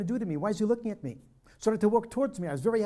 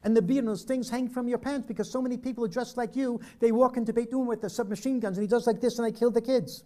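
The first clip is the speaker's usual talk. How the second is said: flustered; 4 semitones higher, 3 dB louder than usual. Retold or imitated. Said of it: "He got flustered".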